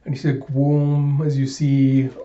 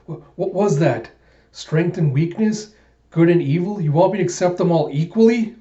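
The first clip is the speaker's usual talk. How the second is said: higher, rising alarm while falling; shocked disbelief; 5 semitones higher, 3 dB louder than usual. Acted. Alita falling, demanding answers, in shocked disbelief. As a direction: cry out in disbelief as she plummets.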